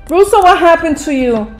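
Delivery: shocked call. Real, not acted. Gamer shouting at Russo in shock, loud. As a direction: yell Russo's name in alarm.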